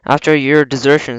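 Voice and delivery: "desertion" given particular emphasis; stress on desertion. A narrator's reading. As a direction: lean a little on "desertion". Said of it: "emphasis on the word desertion".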